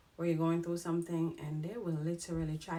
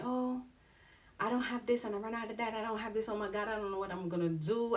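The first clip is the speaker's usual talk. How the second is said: higher, quicker mock plea, imitating a friend; mock whiny beggar; 4 semitones higher than usual. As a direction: play up the poor-me friend. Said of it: "you gonna come tell me".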